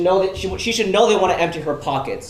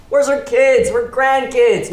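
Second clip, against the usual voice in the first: raised, higher voice, suddenly louder; indignant raised voice demanding where the family is; indignant outburst; 6 semitones higher, 4 dB louder, slower than usual. Acted. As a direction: push it out in disbelief at the family. Heated argument over taxes.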